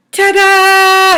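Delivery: high, slow ta-da; excited ta-da. Acted. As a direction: announce it like a reveal. Presenting the bloom.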